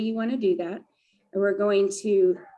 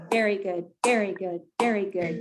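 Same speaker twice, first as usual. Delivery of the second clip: cheer. Shown as a demonstration. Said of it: "And then we will end".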